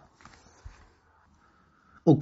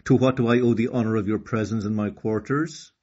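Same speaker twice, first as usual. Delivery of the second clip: distinguished turtle; 4 dB louder than usual. Acted. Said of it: "in a distinguished voice".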